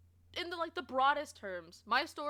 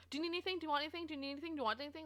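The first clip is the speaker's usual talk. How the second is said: pestering salesclerk voice; 4 semitones higher, 5 dB quieter, much faster than usual. Retold or imitated. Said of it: "pushed to be like".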